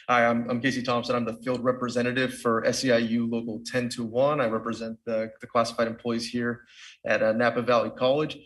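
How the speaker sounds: muffled through a face mask; speaking through face mask. Real, not acted. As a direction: talk with a mask over your mouth. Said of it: "hear me with the mask on".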